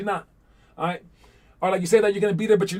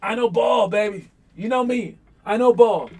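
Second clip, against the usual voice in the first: high, loud playful boast; mock yell to girlfriend; 5 semitones higher, 4 dB louder than usual. Player yelling to his girlfriend, mock boasting. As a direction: show off to the girl in the stands. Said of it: "You're screaming at her".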